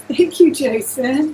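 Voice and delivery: thanks through a laugh; laughing gratitude, high and loud. Real, not acted.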